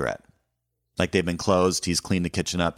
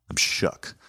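whispered; 3 dB quieter than usual. Retold or imitated. Trails off after shock.

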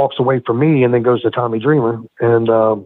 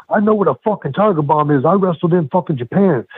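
imitated yelling; 6 semitones higher than usual. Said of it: "'cause he was yelling at me".

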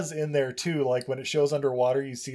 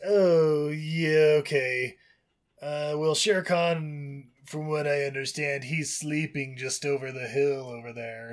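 snake voice; slower than usual. Retold or imitated. Acting Kaa.

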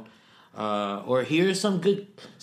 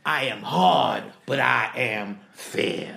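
Sergeant Hartman; 4 dB louder, much slower than usual. Acted. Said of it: "Sergeant Hartman".

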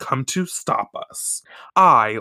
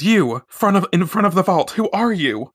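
higher, louder imperious princess voice; princess challenging intruder; 6 semitones higher, 3 dB louder than usual. Retold or imitated. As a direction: confront the thief in the vault. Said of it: "she says".

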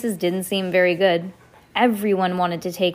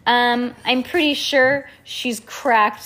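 put-on slow, knowing girl voice; 4 semitones higher, 4 dB louder, slower than usual. Heidi voiced slowly.

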